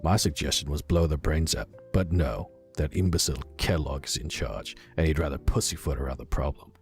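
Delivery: put-on tentative, understated British accent; attempted British accent. Operative grumbling in his log about guard duty, amateur British accent. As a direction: read the log with a shaky grasp of British vowels. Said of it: "I'm gonna try a British accent".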